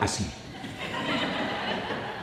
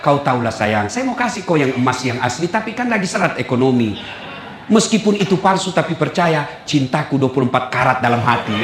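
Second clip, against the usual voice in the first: suami merayu; 4 semitones lower than usual. Acted. Husband sweet-talks wife over fake gold.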